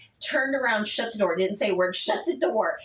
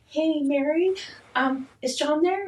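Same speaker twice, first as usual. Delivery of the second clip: tentative phone enquiry; 5 semitones higher than usual. Retold or imitated. Retold phone call to mother-in-law.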